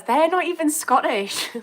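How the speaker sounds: high, loud disbelieving outburst; incredulous. Real, not acted. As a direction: protest in amused disbelief, pitch shooting up. Incredulous at commenter's accent mix-up.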